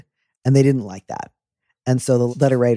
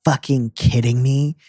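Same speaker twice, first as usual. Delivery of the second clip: angry version. Retold or imitated. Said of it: "I can hear".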